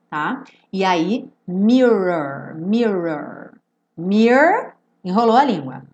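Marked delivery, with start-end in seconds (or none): 1.5-4.7 "mirror" with a curled R in both syllables; tongue curled twice. Shown as a demonstration. Teacher says tongue must curl twice, curled-R pronunciation. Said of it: "tem que enrolar a língua duas vezes".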